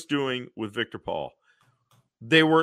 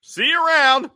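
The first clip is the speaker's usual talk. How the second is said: high, loud cheery send-off; hammy farewell; 12 semitones higher, 7 dB louder than usual. Retold or imitated. Hippie Alfred leaving Batgirl, high loud goodbye. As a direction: toss it off brightly up high.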